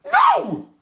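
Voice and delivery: sudden high loud no, cutting off the idea; emphatic no. Real, not acted. Speaker to Salone people, rejecting the court route, loud emphatic no. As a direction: shut the idea down in one sharp word.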